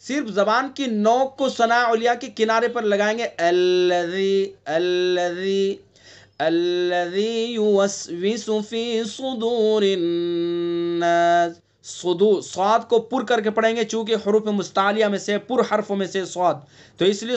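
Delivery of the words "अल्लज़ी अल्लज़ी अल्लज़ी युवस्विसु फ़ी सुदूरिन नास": "अल्लज़ी" slow with the tongue tip soft on the teeth. Shown as a demonstration. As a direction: say अल्लज़ी gently, no hard ज़. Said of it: "राल को नरमी से पढ़ेंगे". (नरमी से अल्लज़ी)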